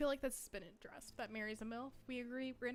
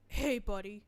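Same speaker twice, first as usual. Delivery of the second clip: louder rough smoker greeting; chain smoker voice; 6 dB louder than usual. Retold or imitated. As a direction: growl it like a heavy smoker. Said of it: "He sounded like a chain smoker".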